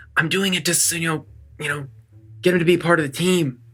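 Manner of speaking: whispering. Whispering an aside to another party member during a tabletop game: whisper. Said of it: "a whisper and be like".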